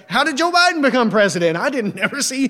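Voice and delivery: God back from vacation, shocked by the news; mock surprised God. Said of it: "he's like".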